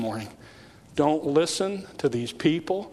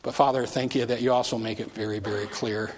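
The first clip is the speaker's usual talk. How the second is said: prayer. Real, not acted. Leads closing prayer.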